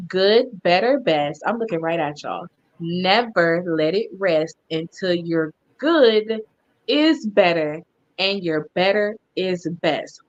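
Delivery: commercial voice. Shown as a demonstration. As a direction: sell it like a commercial. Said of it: "You want me to do the commercial voice".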